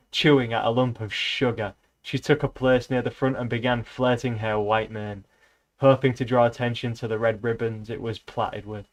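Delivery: reading a novel aloud, even and steady; lightly voiced book reading, just telling the tale; story narration. Reading Animal Farm aloud to viewers, in an even storytelling voice.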